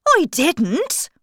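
high, loud creature outburst; indignant hare shout. Acted. Hare interrupting the Hatter, high indignant shout. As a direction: shout a high, quick denial. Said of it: "shouted the March Hare".

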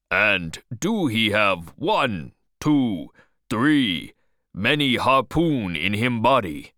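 halting, strange foreign-English question. Acted. Harpooner asking captain about the whale, strange foreign English. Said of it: "asked Queequeg in his strange English".

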